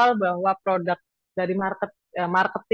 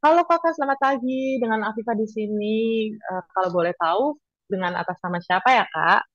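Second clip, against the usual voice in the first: friendly shop assistant on chat; customer service voice. Shown as a demonstration. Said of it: "kita harus jadi personal assistant".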